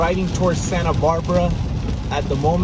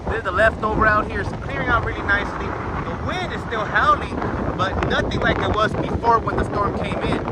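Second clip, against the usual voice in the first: raised, high voice over howling wind; breathless shouting over wind; 5 semitones higher than usual. Real, not acted. Outdoors in howling wind after storm.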